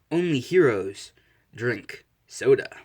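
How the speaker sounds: loud, slow slogan delivery; hero ad slogan. Acted. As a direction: proclaim it like an advertising tagline. Slogan printed on hero's soda can.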